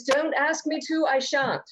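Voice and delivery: put-on British accent. A guest greets the panel in a mock British accent. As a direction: play a mock British hostess welcoming the panel. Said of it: "I will not stop talking like this".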